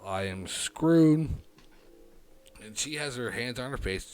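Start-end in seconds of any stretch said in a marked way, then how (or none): 0.1-1.3 drawn-out loud despair; slow loud despair. Real, not acted. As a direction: groan it out, doomed. Panic realising jail risk.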